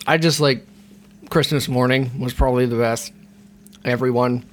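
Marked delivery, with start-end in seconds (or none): 1.3-4.4 talking around a candy cane; mouth full. Real, not acted. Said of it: "I have a candy cane in my mouth".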